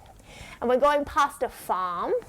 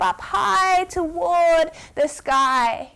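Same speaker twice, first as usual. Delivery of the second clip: slow reach for the sky; 5 semitones higher, slower than usual. Acted. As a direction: stretch it out slowly, reaching high. Shooting up to the sky.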